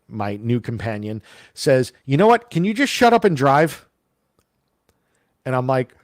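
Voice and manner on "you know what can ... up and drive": snapping. Retold or imitated. Friend snaps at driver.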